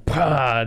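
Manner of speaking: sudden explosive "pah"; imitated punch noise. Telling friend how Jason punches through wall, imitated impact noise. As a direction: burst out a punch sound effect.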